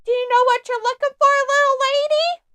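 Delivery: hammed-up mansplaining helper; mock condescending clerk. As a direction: sneer it like a smug store clerk. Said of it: "be like".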